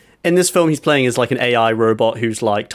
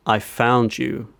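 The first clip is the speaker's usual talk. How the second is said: slow, slightly lowered menace; imitated creepy voiceover; 4 dB quieter, much slower than usual. Man spots her out in the dark, slow creepy voiceover. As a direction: draw it out like a film stalker.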